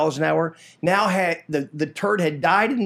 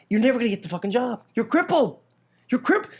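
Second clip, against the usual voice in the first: jeering, rising higher on crippled; mocking taunt; 5 semitones higher than usual. Production friends mocking a crippled coworker, jeering. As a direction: sneer it like a schoolyard bully.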